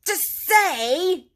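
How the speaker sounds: high, loud, word-by-word cry; can't believe he doesn't get it; excited. A narrator's reading. Rat presses Mole about the doormat, excited. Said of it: "cried the excited rat".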